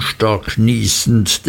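ordinary delivery, nothing marked

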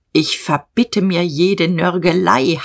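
slow, commanding rebuke; imperious demand. Acted. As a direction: lay down the law slowly. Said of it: "heischte Diederich".

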